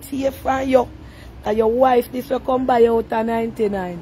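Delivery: ordinary delivery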